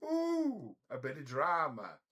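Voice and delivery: mimicking the landlady's gleeful squeal; mock landlady thrill. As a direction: ham up the landlady's delight at a scandal. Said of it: "she was like".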